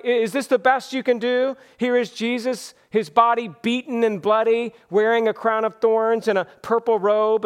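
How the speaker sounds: mildly mocking presentation. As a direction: taunt them with a sorry offering. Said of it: "effort of Pilate to mock".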